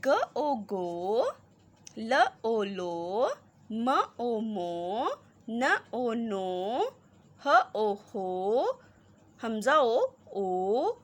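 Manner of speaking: put-on slow, drawn-out letter by letter reading for children; slow spelling drill. Shown as a demonstration. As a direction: sound out each letter slowly, then blend. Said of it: "same इसी तरह reading करके".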